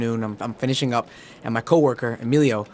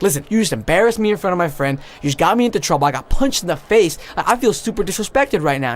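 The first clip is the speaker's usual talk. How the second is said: higher-pitched aggrieved rant; retold telling-off, pitched up and insistent; indignant complaint; 5 semitones higher than usual. Punched man tells off the girl, indignant complaint.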